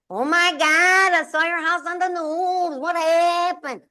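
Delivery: high, slow, drawn-out mock panic; alarmed sister. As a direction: play the frantic sister on the phone. Sister Jackie calls, alarmed.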